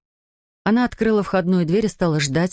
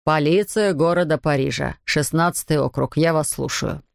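official phone voice. Acted. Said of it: "хорошо поставленный чиновничий голос".

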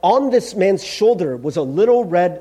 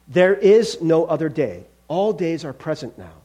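measured, unyielding angel voice; solemn angel. Acted. Angel refusing the ghost any delay, solemn. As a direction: pronounce it with grave certainty.

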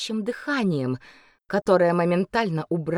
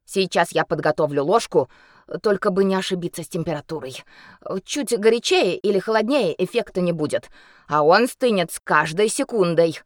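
healer voice; 4 dB louder than usual. Acted.

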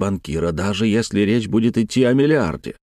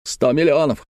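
raised pitch, first outburst; agitated exclamation; 4 semitones higher than usual. Acted. Uncle lamenting his lost fortune, agitated. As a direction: exclaim it, holding some back. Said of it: "повторял дядюшка Антифер".

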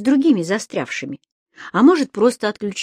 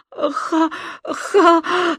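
convulsive wheezing; 9 semitones higher than usual. A narrator's reading. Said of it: "судорожно сипела девочка".

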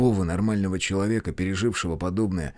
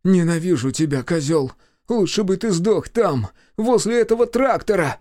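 higher, louder angry tirade; hateful outburst; 7 semitones higher, 4 dB louder than usual. A narrator's reading. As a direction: spit the words out in hate. Brother cursing after slap.

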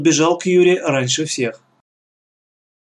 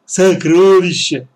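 loud, drawn-out, higher cry; excited shout; 5 semitones higher, 7 dB louder, slower than usual. A narrator's reading. Boy announces the found treasure, shouting excitedly. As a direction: stretch the word out in excitement. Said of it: "закричал Боря".

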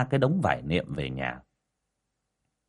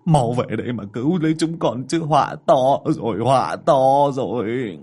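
frantic prayer; 4 dB louder than usual. A narrator's reading. Father praying at the ancestral altar, desperate. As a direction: beg the ancestors in panic. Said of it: "mà khấn".

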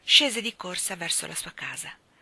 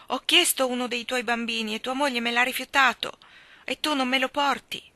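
fairy reproach; 4 semitones higher, 5 dB louder than usual. Acted.

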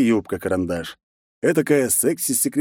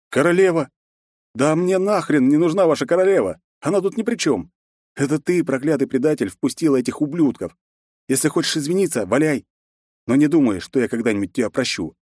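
furious; 6 semitones higher than usual. Acted. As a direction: rage at the traitor. Hero's furious outburst.

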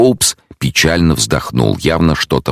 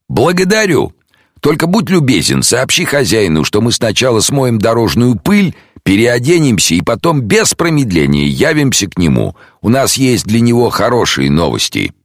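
detective, a touch higher and brighter; 9 semitones higher than usual. Acted. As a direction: voice the calm detective, lifted a little. Detective instructs butler.

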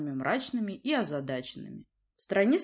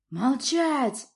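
much higher, louder roar; roared command; 8 semitones higher, 5 dB louder than usual. A narrator's reading. Prince roars at his daughter to be silent. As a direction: silence her. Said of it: "проревел князь".

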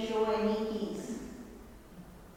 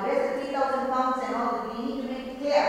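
higher, louder, urgent questions; surprised questioning; 4 semitones higher, 4 dB louder than usual. Retold or imitated. Rachel questioning the landlord about the sudden free house, high and urgent. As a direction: demand an explanation, startled.

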